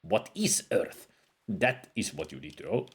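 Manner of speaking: a hint of a wise old wizard reading his lines; scholarly sage, lightly put on; lightly voiced game sage. Voices game character dialogue.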